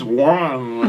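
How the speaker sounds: mock inaudible mumble of a word; garbled, wordless take-off of someone's speech; imitated garbled word. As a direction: imitate a word heard as a drawn-out wah. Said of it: "that's what it sounded like over here".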